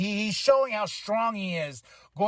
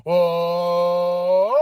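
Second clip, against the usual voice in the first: impressed oh; 6 dB louder than usual. Real, not acted. Reacting to Seth's threat.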